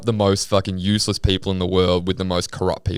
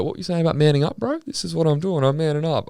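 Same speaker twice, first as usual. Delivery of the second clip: higher-pitched mock tough-guy voice; imitated tough guy; 9 semitones higher, faster than usual. Retelling the removalist's angry call, mock tough. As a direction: lightly imitate a man staunching you. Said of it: "being all tough on the phone".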